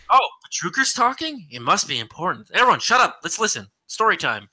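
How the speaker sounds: high, exaggerated awe of someone talking; mock eager listeners. Mocking the Marines who stop to listen.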